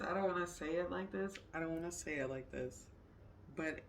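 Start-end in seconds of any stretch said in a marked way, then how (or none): 0.0-1.3 laughing. Real, not acted.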